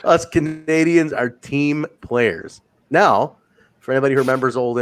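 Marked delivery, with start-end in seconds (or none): 0.0-2.6 drawn-out, evenly spaced words; slow, deliberate quote. Retold or imitated. Podcaster repeating a wrestler's line, slow and deliberate. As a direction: repeat it slowly with composure.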